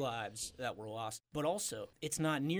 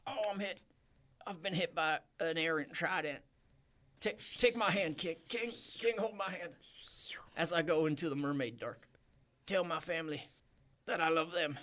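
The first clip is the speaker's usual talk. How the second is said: wounded soldier gasping; 3 semitones higher than usual. Acted. Mayor dying, last words.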